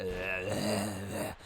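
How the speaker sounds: demonstrated throaty rattle; hurt-throat noise. Shown as a demonstration. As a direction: imitate a sore throat with a long croak. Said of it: "the hurt in my voice. It's like".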